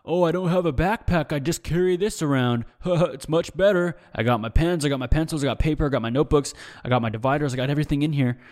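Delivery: a hint of a smug classmate bragging about his binder; lightly voiced know-it-all listing his supplies, one quick stretch; show-off classmate. Mocking the binder kid who won't share paper, smug brag. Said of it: "always too busy flexing about".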